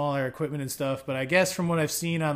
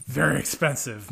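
Mister Dink. Acted. Quoting a cartoon character mid-explanation, playful impression. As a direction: lightly imitate a cartoon neighbor savoring the words. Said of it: "Mister Dink from".

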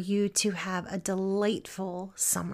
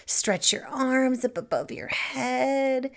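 unhurried stretch guidance with long pauses; guided meditation. Acted. Teacher guiding listeners through body stretches, calm meditation voice. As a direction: ease them through each stretch, savouring it.

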